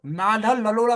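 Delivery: "नाडल नलोला" with the r sounds turned to l and d, said slowly; lisp. Shown as a demonstration. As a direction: lisp the name as "नाडल नलोला", like a small child. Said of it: "मुझे तुतला के बोलता था". (तुतलाकर "नाडल नलोला")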